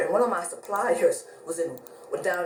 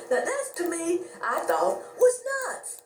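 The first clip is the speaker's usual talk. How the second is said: exasperated; 9 semitones higher than usual. Real, not acted. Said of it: "own opinion".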